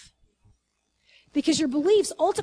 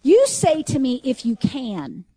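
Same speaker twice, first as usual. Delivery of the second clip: Jesus's voice; 7 dB louder, slower than usual. Retold or imitated. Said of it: "here's what it says in the voice".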